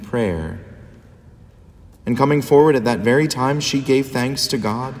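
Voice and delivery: measured liturgical proclamation; Gospel reading. Acted. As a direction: read scripture solemnly from the ambo.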